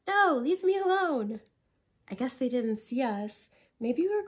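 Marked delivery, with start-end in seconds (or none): 0.1-1.4 irritated snap. Acted. Tired rower snaps at friend.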